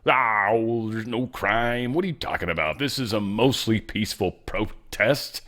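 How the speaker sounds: drawn-out imitation of a denier; lightly mock the other side, slow and dragged out; mock crazy Democrat. Host mimicking Democrats who deny crime, mocking voice. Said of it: "crazy Democrats and their whole theory".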